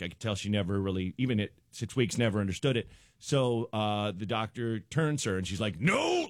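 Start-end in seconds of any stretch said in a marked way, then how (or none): 5.8-6.3 high-pitched mock-angry baby yelp; angry baby refusal. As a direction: imitate a cross baby protesting. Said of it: "Like, this angry face".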